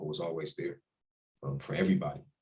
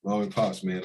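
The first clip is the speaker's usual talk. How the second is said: fond exclamation; 3 semitones higher, 6 dB louder than usual. Real, not acted. Reaction to parents photo.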